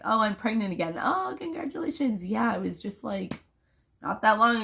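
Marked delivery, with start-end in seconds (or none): 0.1-0.9 mock cheery exchange. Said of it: "It's like". 1.0-2.2 mock congratulations. Mocking people's reaction.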